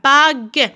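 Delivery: "Bague" split into two beats; syllable by syllable. Shown as a demonstration. Teacher counting syllables for pupils, in separated beats. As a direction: draw out "Bague", sounding the final e. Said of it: "il y a deux syllabes".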